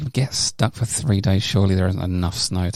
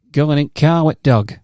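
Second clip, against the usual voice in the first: slow, louder mock Yorkshire accent; a hammed-up Yorkshire drawl; bad Yorkshire accent; 6 semitones higher, 6 dB louder, slower than usual. Mock Yorkshire accent to a Yorkshire-born cohost. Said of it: "that's a really bad accent".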